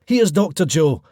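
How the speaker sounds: bright, even host read over music; podcast intro read. Acted. Host introducing the episode to listeners, polished read. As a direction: welcome listeners and set up the guest.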